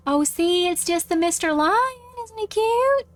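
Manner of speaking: lightly voiced mom cooing over a toy; a hint of motherly baby talk; reassuring mom. Mom reassuring child about lion toy.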